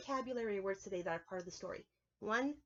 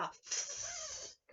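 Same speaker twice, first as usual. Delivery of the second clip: much higher, slow buzzy mosquito voice; high mosquito impression; 6 dB quieter than usual. Shown as a demonstration. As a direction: squeak it out like a tiny bug. Mimics a mosquito.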